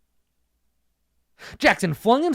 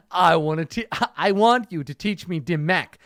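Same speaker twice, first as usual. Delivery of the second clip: Spanish ninja. Acted. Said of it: "the Spanish ninja continued".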